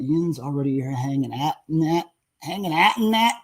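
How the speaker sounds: playful Pittsburghese, rising at the end; Pittsburgh dialect. Retold or imitated. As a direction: read it with a teasing Pittsburgh twang. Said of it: "I love when you talk like that".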